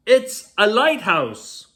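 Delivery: high, loud and slow triumphant shout; excited discovery. Acted. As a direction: shout it out like you cracked the riddle.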